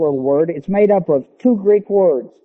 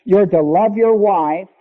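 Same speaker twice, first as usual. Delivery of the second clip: slow preaching climax; 2 semitones higher, slower than usual. Acted. Preacher pressing husbands to love like Christ, slow and rising. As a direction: lean into every word of the comparison.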